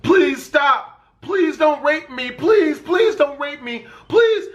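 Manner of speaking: hammed-up frightened girl begging; panicked pleading. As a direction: plead in terror. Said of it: "And it's like".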